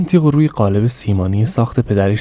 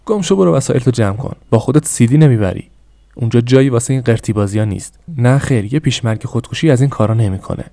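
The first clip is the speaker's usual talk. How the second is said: raised, barking orders; angry father. Acted. Father ordering son to pack, angry orders. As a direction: dismiss the boy harshly.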